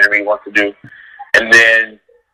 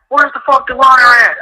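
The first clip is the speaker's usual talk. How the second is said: high, frantic mock shout; frantic yell; 13 semitones higher than usual. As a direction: demand the runner in a high panic. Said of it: "They're like".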